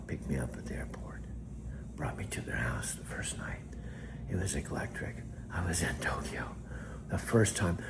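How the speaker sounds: hushed storytelling whisper; soft whisper. Real, not acted. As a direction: murmur it like a secret memory.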